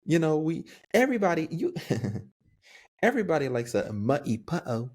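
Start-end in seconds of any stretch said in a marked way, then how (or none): 3.0-4.9 playful British accent from a children's cartoon; English accent. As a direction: put on a light English accent. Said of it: "my English accent is".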